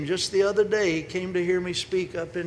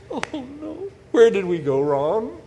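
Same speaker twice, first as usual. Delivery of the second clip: much higher wail, then louder; hammed-up gasp of family shame; dismayed townsfolk; 7 semitones higher, 5 dB louder than usual. Neighbours reacting to Mary's pregnancy, hammed-up dismay. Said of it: "everyone's going".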